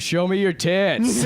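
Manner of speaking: high, loud, slow loopy yell with a laugh; laughing mock shout. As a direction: imitate a drugged teen yelling. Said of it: "he just yells to the nurse".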